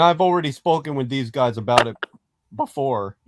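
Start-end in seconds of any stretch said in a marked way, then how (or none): 2.6-3.2 voice crack. Real, not acted. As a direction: voice cracking on the word. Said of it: "Ooh, voice crack".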